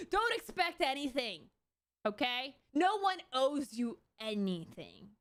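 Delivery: mock cold commenter. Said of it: "That's what everyone said".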